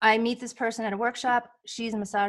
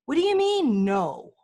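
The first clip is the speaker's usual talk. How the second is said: surprised; 5 semitones higher, 3 dB louder, slower than usual. Retold or imitated. Surprised reply to heart.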